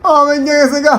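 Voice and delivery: moaning as if injured; put-on pained whimper; feigned pain. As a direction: groan the words out pitifully. Faking a broken leg.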